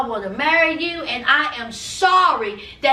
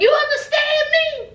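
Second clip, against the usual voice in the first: mock demanding shout; 10 semitones higher than usual. Cole demanding an answer.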